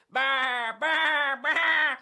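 high, loud baas; rapid-fire sheep outburst; sheep bleating. Acted. Animals burst out at the farmer.

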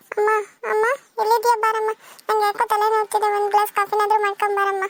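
put-on drunk voice. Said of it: "voice ಎಲ್ಲ ಒಂಥರ ಕೇಳಿಸ್ತಿದೆ".

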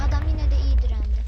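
a big burst of shouted praise; loud shout. Real, not acted. Gamer shouting at the fight's end. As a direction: yell it out at full volume.

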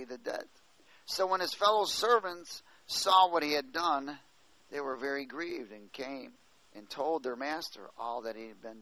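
carried reading voice rising and falling; scripture reading. Acted. Preacher reading the parable to the church, steady reading voice. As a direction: tell the parable through the text.

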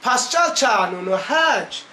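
put-on slow Erzurum accent, "Pascal" as "Paçal" and "kanunu" as "çanunu"; drawn-out Erzurum accent on "Pascal kanunu hiç", "hiç" like "haç". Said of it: "Erzurum şivesiyle".

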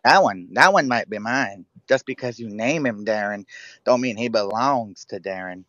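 slow, drawn-out comedian impression; lightly voiced stand-up comic, stretching the words; Cat Williams. Jailed man disowning his baby mama's child, lightly voiced impression. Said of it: "I could do Cat Williams".

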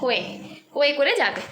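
"কোয়ে" with a y in place of l; childish "কোয়ে", the l dropped; imitated baby talk. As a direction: echo a toddler's "কোয়ে", meaning lap. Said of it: "এখন বলছে কোয়ে উঠবে".

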